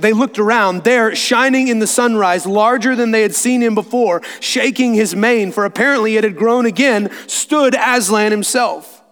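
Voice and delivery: lifted, building narration slowing on the reveal; story narration. A narrator's reading. Narrator revealing Aslan in the sunrise, animated storytelling. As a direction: read with growing wonder.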